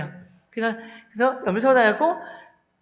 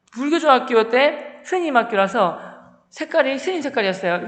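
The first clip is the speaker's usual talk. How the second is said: normal talking voice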